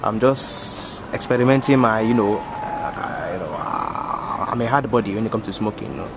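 put-on African-accented uncle voice, unhurried. Uncle bragging to the homies, African accent. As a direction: play the boastful African uncle.

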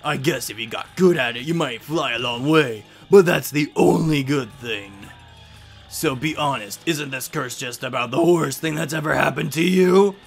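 lightly voiced villain, drawn-out and mocking; hammy game villain with sudden loud emphasis; taunting curse-giver. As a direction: deliver the curse with theatrical relish. Voices the curse-giving game character.

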